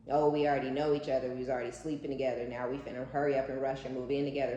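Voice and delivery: quick, breezy mock of the couple. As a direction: rattle it off like a smug new couple. Mocking the couple's rushed talk.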